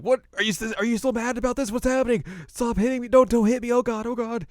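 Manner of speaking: very high frantic pleading; mock panic. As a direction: beg for the blows to stop, hammed-up. Acting Moroku being attacked with boomerang.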